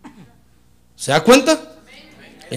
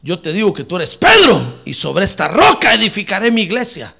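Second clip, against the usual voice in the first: lightly voiced Lord; 8 dB louder than usual. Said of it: "el Señor le dijo".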